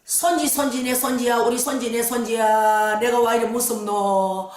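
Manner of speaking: put-on slow, wailing old woman's lament; mock sobbing granny, drawn out; grandmother crying. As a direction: plead tearfully as a frightened grandmother. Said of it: "막 울더라고 할머니가".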